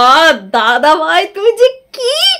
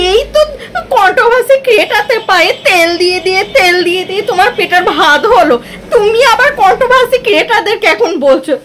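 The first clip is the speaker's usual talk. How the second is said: mocking laughter; 3 semitones higher than usual. Real, not acted. Vlogger mocking dada bhai to viewers, laughing scornfully. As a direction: taunt him while laughing at him.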